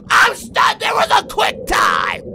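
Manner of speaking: high, loud disbelieving yell; outraged shout. Real, not acted. Player stunned by a quick time event, outraged shout. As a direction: yell it in shock, pitch way up.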